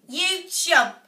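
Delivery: high, loud furious yell. A narrator's reading. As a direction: spit out the insult at the boy. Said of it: "She snatched the bean and yelled".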